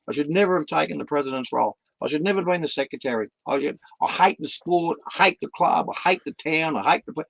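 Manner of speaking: fed-up volunteer. Retold or imitated. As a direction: rattle off the complaints. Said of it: "I've heard 'em all".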